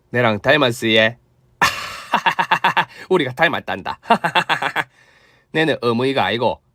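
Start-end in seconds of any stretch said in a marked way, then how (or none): 1.6-2.8 a brief shy chuckle; short laugh. Acted. Mother laughs at resemblance. 4.0-4.8 a short laugh that drops off; falling laugh. Acted. Mother laughs again.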